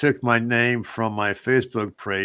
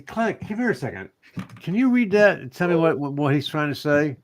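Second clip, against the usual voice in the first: higher-pitched puzzled request; puzzled plea for help; 5 semitones higher than usual. Retold or imitated. Man asking Clint to read a text, puzzled. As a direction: call someone over to help you decipher.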